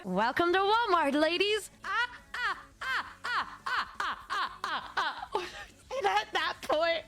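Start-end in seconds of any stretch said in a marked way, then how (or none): 0.0-1.7 lightly voiced, sing-song greeting; a hint of the odd NPC greeter; mock creepy greeter. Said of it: "He started going". 1.8-5.4 high, soft staccato villain cackle; evil NPC laugh. Retold or imitated. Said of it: "a literal evil N P C laugh".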